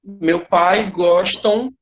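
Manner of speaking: very slow, drawn-out example sentence; demonstrating an error. Shown as a demonstration. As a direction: spell out the mistake word by word for learners. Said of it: "como se a gente estivesse falando assim". (exemplo de erro, dito bem devagar)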